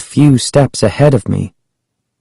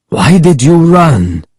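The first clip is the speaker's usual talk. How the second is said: higher, insistent question; indignant, pitched-up questioning; exasperated demand; 6 semitones higher than usual. A narrator's reading. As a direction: press the runaways for an answer. Ahmed repeats his demand, exasperated.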